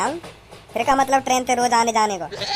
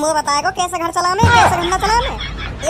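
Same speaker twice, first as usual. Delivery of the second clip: higher, louder bullying threat; threatening bully; 4 semitones higher, 3 dB louder than usual. Acted. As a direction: lean in and threaten him. Bully threatens, rising pitch. (ऊँची आवाज़ में धमकाता गुंडा)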